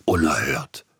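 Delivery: indignant hushed exclamation; outraged whisper. Acted. Krause reacts to the review in a shocked whisper. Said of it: "machte Herr Krause".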